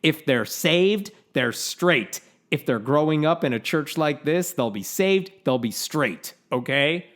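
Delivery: put-on quoting a pastor in an Oklahoma accent. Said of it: "Here's what he says at the end".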